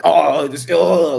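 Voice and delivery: high, loud mock panic; hammed-up panicked viewer; mocking whiny viewer. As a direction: squeal it like a spooked follower. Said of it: "you're like".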